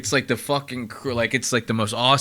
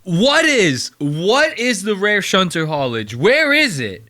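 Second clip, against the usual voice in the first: higher, louder baffled demand; real disbelief, pushed up and out; demanding an answer about the jargon, exasperated; exasperated outburst; 4 semitones higher, 3 dB louder, slower than usual. Real, not acted.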